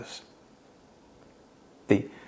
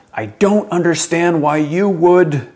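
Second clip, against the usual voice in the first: raised, high exasperated demand; angry yell; 7 semitones higher, 7 dB louder, slower than usual. Acted. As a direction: yell it slowly, as if angry at someone. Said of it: "we say or even yell things like".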